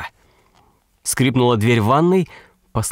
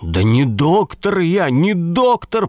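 прорвавшийся крик; 6 semitones higher, slower than usual. A narrator's reading. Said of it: "прорвался, наконец, Лаптев".

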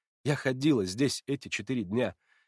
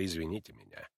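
ordinary delivery, nothing marked

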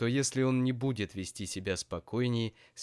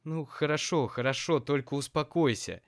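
anxious soothing; 6 semitones higher, 3 dB louder than usual. A narrator's reading. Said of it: "замахала руками мама".

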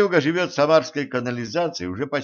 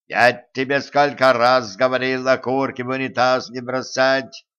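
gurgling voice; 3 dB louder than usual. Acted. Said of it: "пробулькал Водяной".

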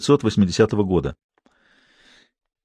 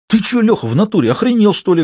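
furious at the bruised fingers; indignant outburst; 11 semitones higher than usual. Acted. Gruzdikov to Lyokha after hit fingers, high outraged shout.

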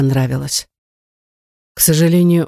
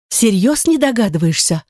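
higher, breathless incredulous question; gasping in disbelief; 4 semitones higher than usual. A narrator's reading. Girl stunned by the man's question, gasping in disbelief. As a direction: gasp it out, amazed he doesn't see. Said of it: "охнула она".

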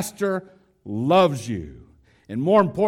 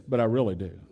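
sincere aside; 6 semitones lower, 4 dB quieter, much faster than usual. Retold or imitated. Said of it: "The pastor's making me do it, and then add this".

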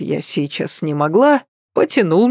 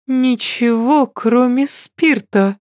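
thoughtfully; 6 semitones higher, slower than usual. Acted. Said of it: "задумчиво проговорила она".

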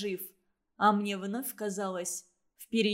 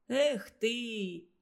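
reproachful. A narrator's reading. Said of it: "укорял кого-то партизан".

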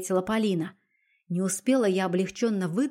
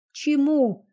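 higher and louder, a choked sob on one word; a hint of a tearful outburst; sobbing question; 7 semitones higher, 5 dB louder than usual. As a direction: force it out through a sob. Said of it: "всхлипнула я".

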